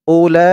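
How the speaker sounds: "উলা" with the final "লা" held very long; four-alif elongation. Shown as a demonstration. Teacher showing the madd rule, "উলা" drawn out long. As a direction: chant "উলা", stretching the last vowel for four counts. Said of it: "এখানে যে নিয়মে পড়েছি এখানেও".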